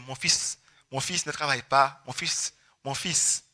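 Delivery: slow soft worried mother; mother's lament. Retold or imitated. Mother lamenting to doctor about son, soft slow. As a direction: plead slowly, trailing off. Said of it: "elle parle au docteur".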